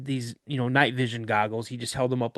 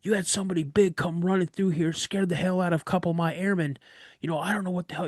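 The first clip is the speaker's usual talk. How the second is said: higher, heated mock accusation; accusing instructor; 5 semitones higher, faster than usual. Instructor accusing the other of sending someone, heated. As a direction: call out the lie angrily. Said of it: "He goes".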